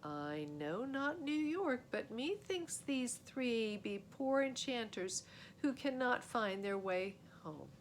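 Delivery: lightly voiced old courtier; old-fashioned court figure.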